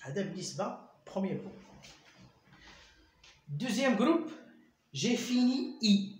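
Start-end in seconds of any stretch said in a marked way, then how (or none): 4.9-6.2 slow dictation. Shown as a demonstration. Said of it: "ردوا البال".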